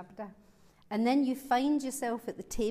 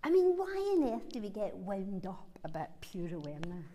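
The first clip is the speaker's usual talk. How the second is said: laughing. Real, not acted. Amused aside about a silly dispute.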